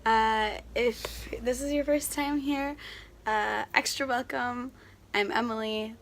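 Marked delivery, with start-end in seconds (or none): 0.0-4.7 hoarse, recovering from a cold. Real, not acted. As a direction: voice worn down by a cold. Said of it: "my coming off of a cold voice".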